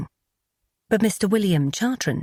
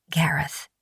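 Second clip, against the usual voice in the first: husky voice. A narrator's reading. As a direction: let the name come out husky. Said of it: "she repeated in her husky voice".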